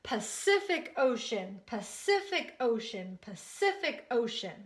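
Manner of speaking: "Pacific Ocean" evenly repeated, stress on CIF; "Pacific Ocean" in a steady teacher's chant, punching CIF; say-along repetition. Shown as a demonstration. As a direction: lead a class repeating "Pacific Ocean", falling each time. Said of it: "Can you say that with me?".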